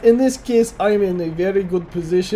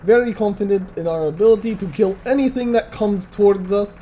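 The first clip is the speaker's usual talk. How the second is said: a light, hammed-up Russian accent all through; mock Russian accent, lightly done; bad Russian accent. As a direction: play a jokey Russian tank commander with a thin Russian accent. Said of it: "I'm doing my bad Russian accent".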